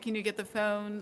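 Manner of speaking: "phone" with a stretched Delco O; drawn-out O. Shown as a demonstration. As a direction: draw out the vowel in "phone". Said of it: "you draw out these O's".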